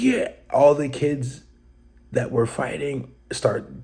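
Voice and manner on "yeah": crowd cheer. Retold or imitated.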